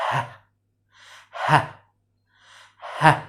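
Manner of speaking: "ه" as a short breath-led H, "hah"; letter sound demo. Shown as a demonstration. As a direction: sound out "ه" in one brief puff. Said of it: "ال H بننطقه إيه؟". (نطق "ه" كصوت H قصير بنفَس)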